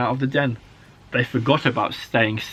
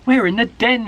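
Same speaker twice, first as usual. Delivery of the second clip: high, loud cub exclaiming; delighted realisation; 10 semitones higher, 6 dB louder than usual. A narrator's reading. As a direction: burst out with the discovery. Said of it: "he said".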